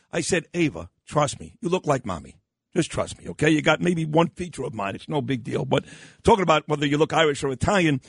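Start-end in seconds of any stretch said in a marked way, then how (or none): 0.5-5.6 put-on calm an upset child, pitched down; understated soothing father; reassuring dad. Retold father reassuring upset daughter.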